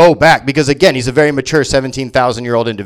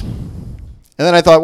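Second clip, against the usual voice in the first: ordinary talk, nothing marked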